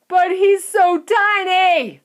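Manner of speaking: high, slow shocked shout; father yelling at the tiny screen. A narrator's reading. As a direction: shout it in disbelief. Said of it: "shouted Mister Teavee".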